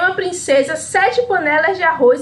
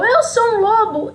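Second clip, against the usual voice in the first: higher, slowed mock roar of the wolf; mock wolf yell; 7 semitones higher than usual. The wolf shouts at Chapeuzinho, hammed-up mock yell. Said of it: "E ele gritou".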